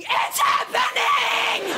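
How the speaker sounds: high, drawn-out panicked yell; mock screaming. Joining strangers running down Oxford Street, mock screaming. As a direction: scream it slowly as if doom has arrived. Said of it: "and just start screaming".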